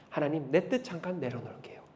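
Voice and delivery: hushed, voiceless prayer; a whispered surrender in prayer. Acted. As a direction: whisper it to God as a private vow. Acted whispered prayer to God.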